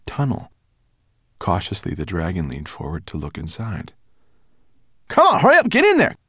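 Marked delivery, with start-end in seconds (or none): 5.1-6.2 high, loud hurry-up shout; urgent shout. Acted. Guide urging the travellers into the tunnel, shouting. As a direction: shove them in with your voice.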